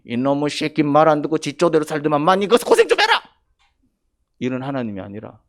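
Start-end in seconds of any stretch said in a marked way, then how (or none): 0.0-3.2 mock scolding. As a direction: build into a mock angry outburst. Acts out a scolding God.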